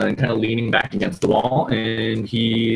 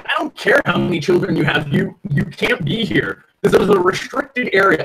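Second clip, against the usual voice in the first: higher-pitched, insistent refusal; guard's stern refusal; 10 semitones higher, 3 dB louder than usual. Acted. Guard bars workers from restricted area, insistent. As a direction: turn them away, voice raised in pitch.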